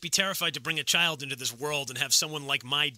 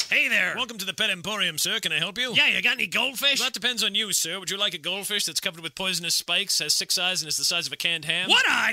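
hammed-up shopkeeper; 4 semitones higher, 3 dB louder than usual. Plays shopkeeper and customer skit.

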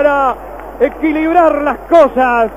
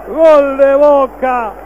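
goal call shout; slower than usual. Real, not acted.

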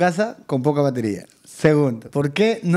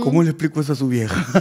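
laughing; 4 semitones lower, faster than usual. Real, not acted. Imagina explicar a la madre.

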